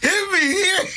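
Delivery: high-pitched mocking impression through laughter; giggly, squeaky quote; Tezza. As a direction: imitate a friend in a high voice. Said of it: "Tezza, Tezza was like".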